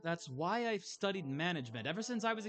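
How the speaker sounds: a hint of an eager, hurt granddaughter; lightly voiced Moira figure. Granddaughter confessing to her Nan, earnest. Game dialogue read in character.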